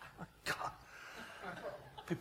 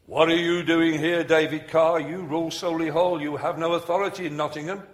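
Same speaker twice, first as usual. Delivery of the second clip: possessed man's voice; 3 semitones higher, 9 dB louder than usual. Retold or imitated. Possessed woman confronting minister, demon in man's voice. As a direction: challenge the intruder as the demon, loud and deliberate. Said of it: "she speaks in a man's voice".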